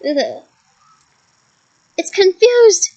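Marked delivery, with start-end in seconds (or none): 2.0-2.9 higher, louder excited shout; teacher shouting encouragement. A narrator's reading. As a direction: shout the news to the class. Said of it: "shouted Lupin".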